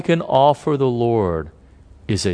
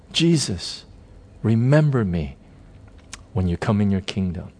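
understated plea, falling away lower; simple plea; 3 semitones lower than usual. Retold or imitated. Dying thief asks Jesus to remember him, simple plea. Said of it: "all he has is a simple plea".

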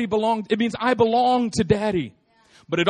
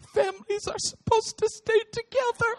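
put-on much higher, earnest little girl; little daughter's voice; 14 semitones higher, 3 dB quieter than usual. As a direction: insist like a small child. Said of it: "She said".

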